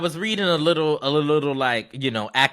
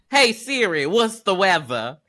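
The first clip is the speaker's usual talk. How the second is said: talking to voice assistant; 2 semitones higher than usual. Retold or imitated. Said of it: "I just love the way you say her name".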